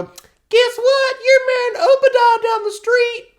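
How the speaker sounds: loud, high mock announcement; gruff dad voice. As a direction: bark it out like a Puritan dad. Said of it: "your dad would just go".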